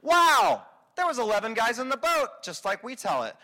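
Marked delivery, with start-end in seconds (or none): 0.0-2.4 lightly voiced, high praise of Peter; impressed Jesus. Imagined Jesus praising Peter, lightly voiced high gush. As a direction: gush over Peter, a touch mock. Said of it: "expect Jesus to go".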